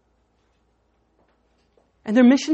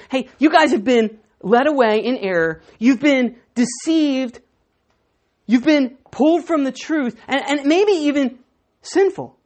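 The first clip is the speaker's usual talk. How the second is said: accusing Pharisees; 3 dB louder than usual. Retold or imitated. Pharisees accusing the guards of straying, pointed scorn. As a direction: lay the blame on them. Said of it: "this is what the Pharisees are saying".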